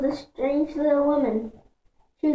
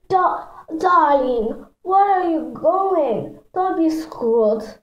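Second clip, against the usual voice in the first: slow, higher-pitched fake French accent; awful fake French accent; 4 semitones higher, slower than usual. A narrator's reading. Little sister playing salon owner stops the narrator, awful fake French accent. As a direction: draw it out in a bad French accent. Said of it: "in an awful fake French accent".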